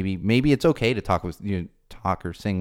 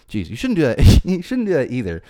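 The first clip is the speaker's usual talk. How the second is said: laughing; 4 semitones higher, 8 dB louder than usual. Real, not acted. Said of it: "Now I'm cracking myself up".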